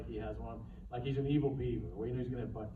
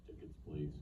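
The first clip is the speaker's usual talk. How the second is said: lower, softer, menacing ringmaster; ominous ringmaster; 8 semitones lower, 9 dB quieter than usual. Shown as a demonstration. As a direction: darker take on the line. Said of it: "let's say it a little more ominous".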